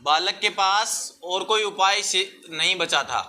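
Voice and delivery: measured phrases with long pauses for copying; classroom dictation. Real, not acted. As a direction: dictate the answer piece by piece.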